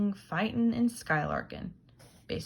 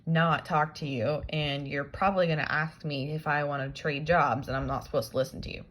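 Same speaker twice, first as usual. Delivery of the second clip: paraphrased Jim. Retold or imitated. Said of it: "so he says".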